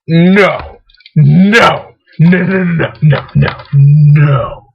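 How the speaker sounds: punchy retold refusal, last one drawn out; insistent refusal. Telling off a mouse that won't work, insistent refusal.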